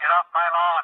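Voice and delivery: really loud, high, full-volume shout. Testing a recording by saying the line again: really loud. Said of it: "If I do it really loud".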